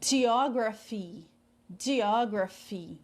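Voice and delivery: slow, careful "geography" with PH as F; pronúncia demonstrada. Shown as a demonstration. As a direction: model "geography" slowly, syllable by syllable. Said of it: "Prestem bastante atenção na pronúncia". ("geography" devagar, com PH som de F)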